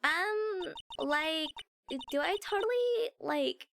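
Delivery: lightly played airhead Valley Girl; Valley Girl accent. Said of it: "I love the Valley Girl accent".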